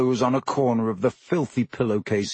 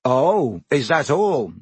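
angry sarcasm; 2 semitones higher, 3 dB louder, slower than usual. Acted. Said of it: "said Harry angrily".

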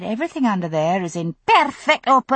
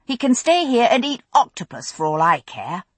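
dark threat. Acted. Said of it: "Brianna put in darkly".

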